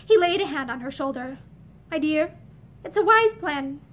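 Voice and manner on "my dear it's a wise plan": gentle. Acted. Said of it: "he said more gently".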